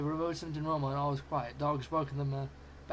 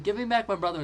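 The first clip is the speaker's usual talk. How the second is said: loud, higher furious demand; angry shout; 4 semitones higher, 6 dB louder than usual. A narrator's reading. Kyle shouts angrily at the spaceship. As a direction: throw the words at the ship. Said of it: "Kyle got angry and said".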